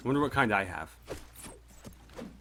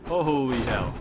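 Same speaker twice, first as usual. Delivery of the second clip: shocked exclamation; 3 semitones higher, 4 dB louder, slower than usual. Real, not acted. Army suddenly overwhelmed, shocked.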